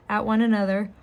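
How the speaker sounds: mid-yawn. Real, not acted. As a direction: talk through a yawn. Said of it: "sorry for the yawn".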